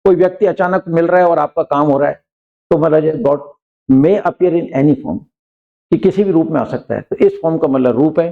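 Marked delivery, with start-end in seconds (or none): 3.2-5.2 slow, careful example sentence; dictating pace; slow example read. Shown as a demonstration. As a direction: read it out word by word for the class. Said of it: "slow example".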